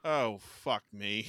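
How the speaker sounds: slow, drawn-out retold groan of words; acted dismay. Actor sees his bad film's tape, slow dismay. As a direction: stretch it out in weary disbelief.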